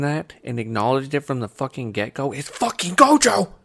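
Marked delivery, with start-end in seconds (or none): 2.3-3.5 high, slow, loud emphasis; excited shout. Real, not acted. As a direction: shout the name with passion. Passionate anime rant.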